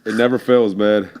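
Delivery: talking with a tissue in nose; tissue up one nostril. Real, not acted. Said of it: "what do you have in your nose".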